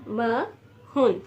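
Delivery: महन stretched very slowly; slow model word. Shown as a demonstration. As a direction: draw out महन for learners. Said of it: "forty को हम लोग कहते हैं".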